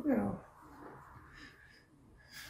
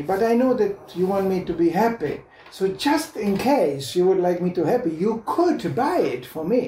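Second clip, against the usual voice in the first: put-on little girl wheedling; 3 semitones higher than usual. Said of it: "looks at the father and goes".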